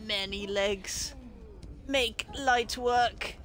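very slow monster voice; crude, drawn-out creature talk; potato creature. Acted. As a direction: stretch each word like a lumbering creature. Voices the creature commenting in game.

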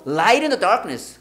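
"Light in the darkness" with "in the" run into "inner"; linked pronunciation. Shown as a demonstration. Teacher models the lyric for students, linked pronunciation. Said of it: "inner야, inner야".

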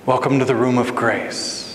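soft, low, unhurried welcome; beautiful hostess voice. Acted. Hostess welcoming a newcomer to the room, beautiful voice. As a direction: greet as if with a lovely, soothing voice. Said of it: "a voice that is maybe the most beautiful voice".

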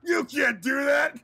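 high, slowed words shaking with laughter; laughing. Real, not acted. Streamer scolding his friend through high-pitched laughter. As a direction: scold him while cracking up.

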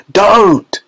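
sharp high "Don't!"; Wonka's cry. A narrator's reading. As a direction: stop her with a sudden cry. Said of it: "said Mister Wonka".

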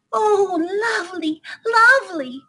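very high, delighted mouse squeal; squeaking mice. Acted. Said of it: "they squeaked".

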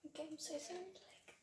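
quiet but clear. Real, not acted. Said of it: "I'm quiet and everything".

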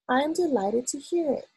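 mildly delighted reply; smiling. A narrator's reading. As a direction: say it through a smile, pitch lifted. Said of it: "still smiling".

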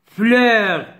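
"Fleur" in one unbroken syllable. Shown as a demonstration. Teacher showing pupils a single syllable, one unbroken beat. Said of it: "une seule syllabe".

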